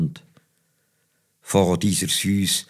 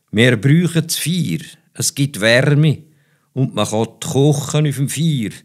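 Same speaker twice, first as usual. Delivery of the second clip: parents' voice; 6 semitones higher, 4 dB louder than usual. Retold or imitated. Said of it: "haben die Eltern amigs gesagt".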